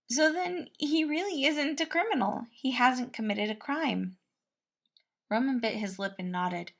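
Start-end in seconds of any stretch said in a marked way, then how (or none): 0.1-4.2 higher, louder, bright fatherly cook; a kindly cook fussing over the prince; higher voice for the caring cook; cheerful cook Patton. A narrator's reading.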